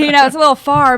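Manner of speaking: laughing through the words; amused, giggling as she talks. Real, not acted. Laughing while repeating.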